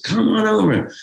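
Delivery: high called-out invitation; calling across the park. Retold or imitated. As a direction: call it out across an empty park. Sharon calling kids over.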